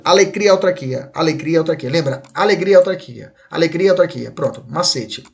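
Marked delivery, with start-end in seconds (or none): 0.0-1.9 quick, joined-up "alegria, autarquia", repeated; brisk mnemonic drill; said fast. Shown as a demonstration. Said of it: "Fala rápido". 2.3-4.3 quick, joined-up "alegria, autarquia"; rattled-off memory hook; said fast. Shown as a demonstration. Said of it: "Fala rápido".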